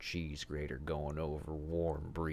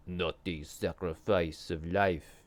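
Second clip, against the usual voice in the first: imps proclaiming; 6 dB louder than usual. A narrator's reading. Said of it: "the imps proclaimed".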